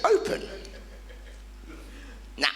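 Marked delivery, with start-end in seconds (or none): 0.0-0.4 demo command. Retold or imitated. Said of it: "and say".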